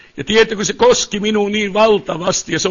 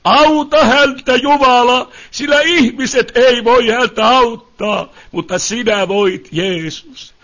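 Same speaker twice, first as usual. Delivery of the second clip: retold prayer; 3 semitones higher than usual. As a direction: pray earnestly over a suffering brother. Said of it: "ja sanoa".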